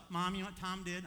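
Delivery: high, loud tattletale voice; tattling little sister. Retold or imitated. Sister tattling to mom, high and loud. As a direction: sing it out like a sister telling on him.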